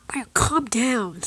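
hushed, steady plea to settle down; calming. Acted. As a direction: talk the raging friend down gently. Friend tries to calm the tantrum.

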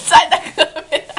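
laughing while shouting; giggling command. Real, not acted. Laughing, telling partner to move.

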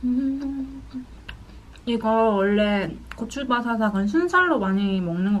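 chewing between words; talking while chewing. Real, not acted. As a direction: mouth partly full of food. Seen 0: Bit chicken at -2; cheeks full, lips pursed while talking.

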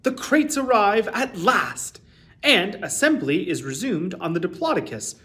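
put-on lively read-aloud for children; expressive children's story reading; storybook narration. A narrator's reading. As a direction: tell it like a bedtime picture book. Reads a picture book aloud.

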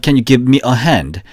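slow, even repetition drill. Shown as a demonstration. Teacher leading a three-times repetition drill slowly. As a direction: say it slowly for students to copy. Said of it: "세 번 시작".

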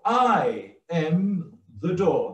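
slow, with "I" stretched and highest, falling away after it; stress on I. Shown as a demonstration. Preacher showing no one else is the door, stress on "I". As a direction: lead with a long "I", then step down. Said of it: "That is the first emphasis".

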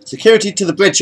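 high-pitched summons, no shout; ordering. A narrator's reading. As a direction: call security in with an order. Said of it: "ordered William Bonnet".

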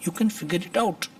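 very slow, word by word; slow classroom demonstration; slow model reading. Shown as a demonstration. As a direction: spell it out slowly for learners. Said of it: "teacher models the English sentence".

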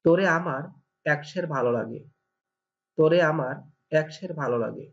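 "তোরে আমার একশের ভালো লাগে" in Barisal dialect, with তোরে for তোমাকে and একশের for খুব; "তোরে আমার একশের ভালো লাগে" in Barisal speech. Shown as a demonstration. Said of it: "এই বাক্যটিকে বরিশালের ভাষায়".

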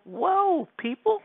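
very high, drawn-out squeal of surprise; falsetto whoa. Pretend. Streamer reacting to his phone, mock falsetto surprise. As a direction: exclaim in a silly falsetto.

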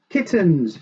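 high storybook exclamation; astonished shout. A narrator's reading. Grandpa discovers the kittens, astonished shout. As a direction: call it out high in amazement. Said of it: "shouted Grandpa".

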